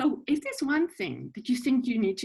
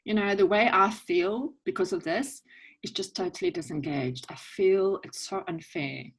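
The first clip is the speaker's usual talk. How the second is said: demo feelings. Shown as a demonstration. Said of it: "So then you say".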